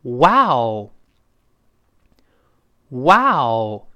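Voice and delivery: loud, long amazed exclamation; expressive wow. Shown as a demonstration. Teacher leading students to read aloud, with feeling. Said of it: "带上语气".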